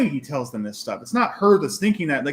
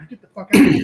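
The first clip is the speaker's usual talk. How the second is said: mock shout; 2 semitones higher, 8 dB louder, much faster than usual. Acted rant at girlfriend.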